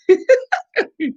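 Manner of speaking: high laugh; burst of laughter. Real, not acted. Vlogger laughing about her husband, high laugh. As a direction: let a big laugh out.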